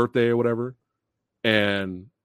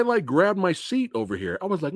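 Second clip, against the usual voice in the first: ordinary delivery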